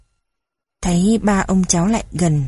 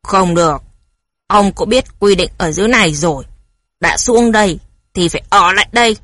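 louder, fast, rumbling guard's voice; booming guard; 3 dB louder, faster than usual. A narrator's reading. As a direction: bark the rule like a stern gate guard. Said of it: "Tiếng nói của hắn ta ồm ồm". (lính canh nói giọng ồm ồm, cứng rắn)

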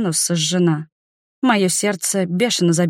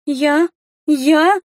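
gasping panic; 8 semitones higher, 4 dB louder than usual. A narrator's reading. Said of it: "судорожно вздыхала Рика".

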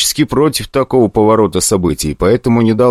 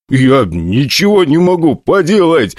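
laughing; 7 semitones higher than usual. Acted. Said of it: "смеясь даже в сознании".

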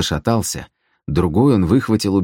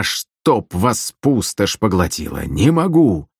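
frustrated curse; 2 semitones higher, slower than usual. Acted. Vadzim cursing in frustration.

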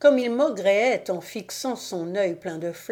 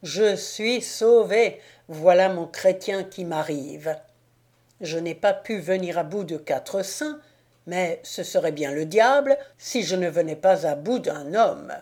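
jubilant; 3 dB louder than usual. Acted. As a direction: crow over the coming knight. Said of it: "en sautant de joie". (le démon exulte, ravi)

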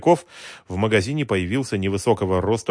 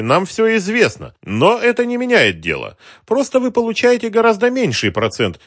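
higher, louder suave extortioner; polite racketeer; 9 semitones higher, 8 dB louder than usual. Acted. Racketeer smoothly threatens the shopkeeper, suave menace.

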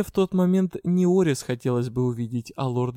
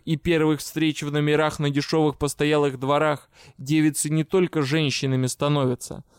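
icy voice. Retold or imitated. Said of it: "заговорил ледяным таким голосом".

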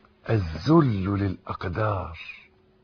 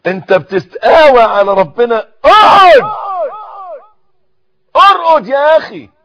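shouting rebuke from the pulpit, much higher and louder; preaching at full force; 16 dB louder than usual. Real, not acted. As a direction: thunder at them like a stern preacher, near a cry. (وعظ بصوت عالٍ غاضب)

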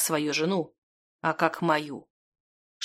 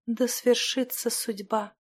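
soft, slow, faint and higher voice; whispered; 4 semitones higher, 6 dB quieter, slower than usual. A narrator's reading. Dying Stekhana accepts her fate, whispering. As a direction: breathe it out slowly, with little strength. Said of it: "прошептала Стехана".

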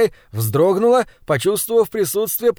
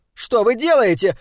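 higher, alarmed cry; shouting; 6 semitones higher than usual. Acted. Seized maid cries out at her captors, shouting. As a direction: yell it as they grab you. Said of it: "закричала девушка".

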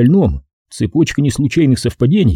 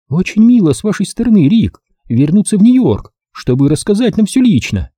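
fond praise; 9 semitones higher, 3 dB louder than usual. A narrator's reading. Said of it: "ласково похвалила она".

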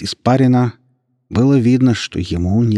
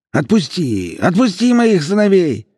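higher, louder desperate plea; voice breaking; 11 semitones higher, 4 dB louder than usual. A narrator's reading. Broken father begs for his sons, voice breaking. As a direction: voice cracks as he begs. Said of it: "Голос Аббаса сорвался".

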